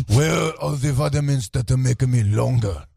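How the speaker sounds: mock Asian accent customer; imitated Asian accent. Asian customer pressing for vitamins, imitated Asian accent. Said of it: "And he goes".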